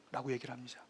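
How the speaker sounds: ordinary talk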